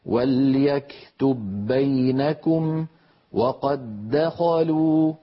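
وليكتب بينكم with the ب run straight into بينكم; وقد دخلوا with the two د merged into one doubled د; slow recitation, letters assimilated; merged reading. Shown as a demonstration. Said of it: "أما لو وصلنا فإننا ندغم".

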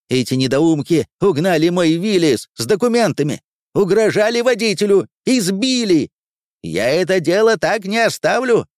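high-pitched angry accusation; indignant outrage. Acted. Furious quartermaster accuses men of stealing his jeep, indignant. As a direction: rant at them, voice pushed up high.

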